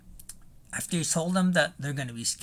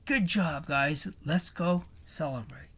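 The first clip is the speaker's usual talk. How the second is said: congratulating; 3 semitones higher than usual. Retold or imitated. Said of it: "perhaps you might say".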